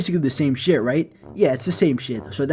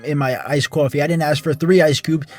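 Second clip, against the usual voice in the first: whiny Karen; 4 dB louder than usual. Retold or imitated. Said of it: "you're like".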